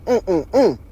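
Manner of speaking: short retold "mm" sounds; imitated wordless moans. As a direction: mimic a woman's muffled moans on the phone. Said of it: "only thing the shit saying is".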